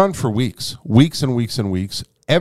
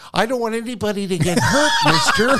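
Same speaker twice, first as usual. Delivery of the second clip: timid plea; 10 semitones higher, faster than usual. Retold or imitated. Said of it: "I was like".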